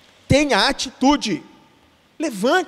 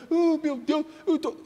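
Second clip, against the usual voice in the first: lightly whined self-pity, higher; a hint of a lamenting believer; mock lament; 5 semitones higher, 4 dB quieter than usual. Believer crying at home, mock lament. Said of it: "se lamentando".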